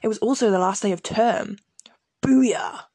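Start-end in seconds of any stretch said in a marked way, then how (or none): 2.2-2.9 loud, high booyah cheer; excited shout. Retold or imitated. Reading her year seven diary to viewers, a loud excited cheer. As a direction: belt out a kid's victory cry.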